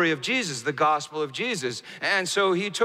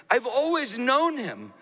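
high, slow, impassioned declaration as the monk; raised, emotional quoted avowal; tearful monk, retold; 6 semitones higher than usual. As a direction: imitate an overcome monk, pitched high and drawn out. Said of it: "through the tears, the monk said this".

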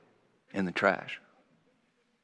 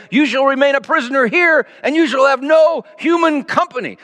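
higher, fast, a hint of a stern sorceress; declaring; 8 semitones higher, faster than usual. A narrator's reading. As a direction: pass sentence on the prince. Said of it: "the enchantress declared".

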